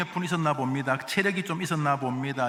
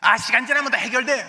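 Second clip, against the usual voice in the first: higher, louder, carefree brush-off; mock breezy dismissal; 6 semitones higher, 8 dB louder than usual. Preacher mocking a complacent believer, breezy brush-off. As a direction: toss it off as if nothing matters. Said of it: "이런 사람이".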